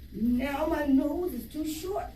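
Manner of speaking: a touch of a slow complaining cry; python crying out. Acted. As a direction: whine it slowly like a stretched snake. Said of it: "cried the python".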